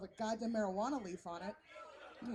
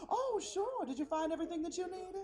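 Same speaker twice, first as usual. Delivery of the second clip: high, lilting helpful Southern hostess; Southern concierge; 7 semitones higher than usual. Retold or imitated. Knoxville concierge to a hotel guest, sweetly Southern. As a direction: chirp it with Southern hospitality. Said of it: "a genuine Southern smile".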